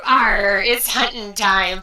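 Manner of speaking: loud hammy pirate growl. Pretend. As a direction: ham up a pirate captain. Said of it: "You missed my pirate voice".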